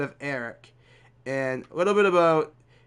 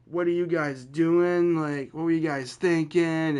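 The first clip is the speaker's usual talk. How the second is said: higher-pitched scolding, only mildly raised; mock yelling mom; 4 semitones higher than usual. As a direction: imitate a mother telling off a group. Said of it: "she starts yelling at all of us".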